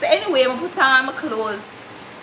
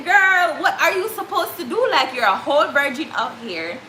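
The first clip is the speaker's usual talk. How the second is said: high, half-laughing self-scolding; inner scolding; 3 semitones higher than usual. Retold or imitated. Telling herself off in her head, high and half-laughing. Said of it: "So in my head".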